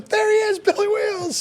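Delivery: very high gleeful call; delighted shout-out. Retold or imitated. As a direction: announce him like a star. Comedian spotting Billy.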